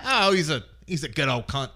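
a lightly put-on Australian accent. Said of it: "the Australians".

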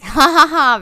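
put-on laughter; mock laugh. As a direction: act out an unconvinced laugh, punched out. Acting Philip's reaction to a joke.

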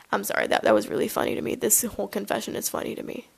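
unvoiced, laughing through the words; laughing too hard to voice it; breathless laughing apology. Real, not acted. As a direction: gasp it out while laughing.

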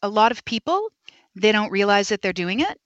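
rising ends on "people" and "doing it"; uptalk. Shown as a demonstration. Guest mimicking people who don't realize it, uptalk. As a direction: turn each phrase into a question. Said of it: "It's the old Valley Girl".

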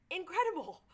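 loud, sarcastic "Incredible!"; sarcastic exclaim. Real, not acted. Host mocking the surgeon, loud sarcastic wonder. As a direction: burst out in mock amazement.

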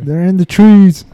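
loud, hammed-up Vietnamese accent shouted from the jungle; mock Vietnamese accent. Joking with a friend about jungle war, loud mock Vietnamese accent. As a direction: bark it like a soldier in a joke Vietnamese accent. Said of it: "That was the best Vietnamese accent I've ever heard".

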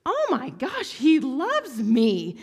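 high, loud, very slow cry of wonder; overwhelmed girl. Retold or imitated. Sobbing teen telling the leader God loves her, overwhelmed. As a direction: stretch it out, overcome. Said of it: "was like".

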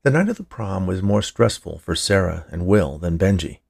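ordinary delivery, nothing marked

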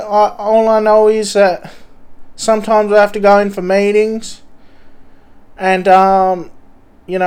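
lightly high, rambling junkie voice; an aimless addict showing off; twitchy slurred sniffing addict. Pretend. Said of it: "Mister Junkie from train station".

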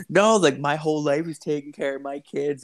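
high-pitched mock self-justification; imitating his buddy. Buddy insists his life is childcare, imitated protest. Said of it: "He's just like".

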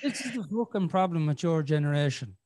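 put-on grumpy old man lecturing the young; old man grumble. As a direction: complain like a cranky elder. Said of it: "I sound like an old man now".

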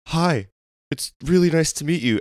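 high-pitched retold fanboy hello; starstruck greeting. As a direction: imitate yourself awkwardly meeting your idol. Starstruck fan greeting his idol, retold.

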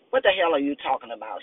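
quick, mildly harsh demand. Acted. Male officer confronting new female partner, fast harsh demand. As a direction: fire the question back fast. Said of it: "he demanded harshly".

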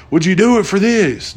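high, teasing bargaining voice; a pilot tempting the passenger with a bribe; coaxing offer. Retold or imitated. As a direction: dangle the bribe.

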